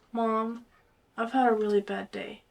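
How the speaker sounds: soft, small-voiced request; quiet, subdued plea to mom; pleading daughter. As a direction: ask gently with puppy-dog eyes. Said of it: "with the biggest puppy dog eyes".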